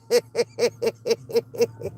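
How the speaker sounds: low, quiet run of chuckles; cracked-up little laugh. Real, not acted. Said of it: "she cracked me up".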